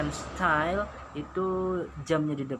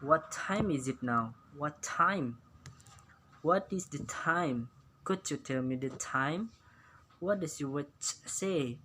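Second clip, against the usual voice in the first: slow, clear teacher model questions; slow model reading; slower than usual. Shown as a demonstration. Teacher reading English questions slowly to pupils, clear and slow. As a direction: spell each question out slowly for the class. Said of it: "bisa Anda lihat".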